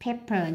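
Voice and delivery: "pepper" stressed on PEP, the first syllable. Shown as a demonstration. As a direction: put the beat of "pepper" on PEP. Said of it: "nhấn âm một".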